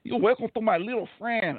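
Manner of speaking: hammed-up Scarface quote; Pacino Scarface impression. Mocking a bad movie accent with a quick Scarface impression. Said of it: "Al Pacino doing Scarface".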